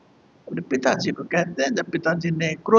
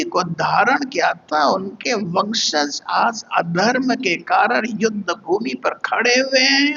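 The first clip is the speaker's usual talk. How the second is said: sarcastic taunt; 2 semitones higher than usual. Retold or imitated. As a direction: imitate a pointed, mocking reproach. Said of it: "व्यंग्यात्मक छींटा कसी करते हुए". (व्यंग्य भरा ताना)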